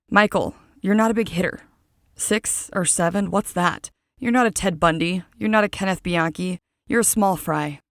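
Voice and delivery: a hint of a UK accent, mocking a killer's tally; light British lilt, belittling; understated English accent, taunting; lightly British accent. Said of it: "picture that kind of an accent as I say this".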